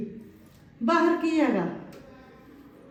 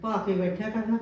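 lower, amused repeat with a laugh; mother-in-law laughs off the daughter-in-law's wish; laughing echo; 4 semitones lower, 3 dB quieter than usual. Acted. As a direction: chuckle at the silly idea. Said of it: "ਲੈ ਦੱਸ".

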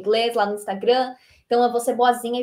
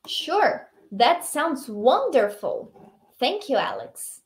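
very slow, intoned acceptance for learners; model dialogue reading; much slower than usual. Shown as a demonstration. Teacher reading Emma's acceptance for students to repeat, slow model reading. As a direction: stretch out each phrase for repeating. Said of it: "tenta imitar a minha entonação".

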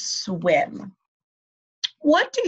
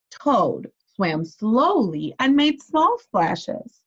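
slow emphatic reading; much slower than usual. Shown as a demonstration. Reading aloud to children, slow.

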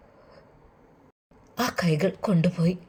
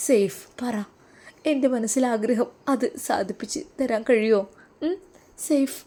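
tug at him for an answer; eager pressing wife; 2 semitones higher, 3 dB quieter than usual. Acted.

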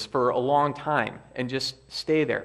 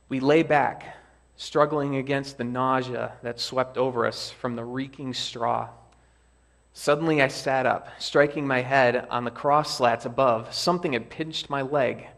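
lively read-aloud for the congregation; story reading; 3 dB louder than usual. Acted. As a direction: read the camp scene with gentle drama. Preacher reads story aloud.

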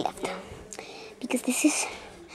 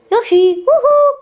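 calling out; 9 semitones higher, 3 dB louder than usual. Pretend. Calling out for Yoshi.

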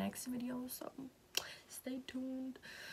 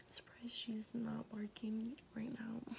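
whispered aside; 7 dB quieter than usual. Real, not acted. Whispered aside about dog.

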